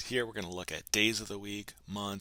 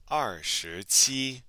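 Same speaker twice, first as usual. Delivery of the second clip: slow and louder, every syllable stretched; slow model pronunciation; 3 semitones higher, 7 dB louder, much slower than usual. Shown as a demonstration. Teacher giving the practice answer, slow loud model pronunciation. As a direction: give learners a slow model to copy.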